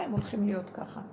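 hushed, unvoiced whisper. Woman retelling what the voice told her, in a whisper. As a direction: whisper it like a secret. Quoted voice in vision.

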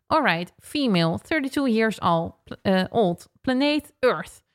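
lightly voiced robotic computer readout. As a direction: read it out like a scanner. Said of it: "in zo'n computerstem".

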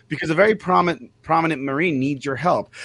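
announcer build to shout. Retold or imitated. And she was like.

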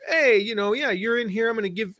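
a hint of a Brooklyn shopkeeper calling out; Brooklyn accent. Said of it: "guy sounds like he's from Brooklyn".

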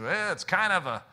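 lightly put-on Cajun accent; a touch of Cajun in the voice. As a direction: imitate a Cajun man's accent. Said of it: "Cajun accent".

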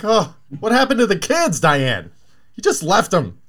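high mocking question; mock the outrage, pitched high. Mocking voice asks about kids.

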